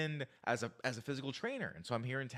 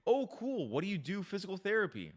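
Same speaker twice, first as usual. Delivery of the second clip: boring answer; 6 semitones higher than usual. Shown as a demonstration. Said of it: "that's boring".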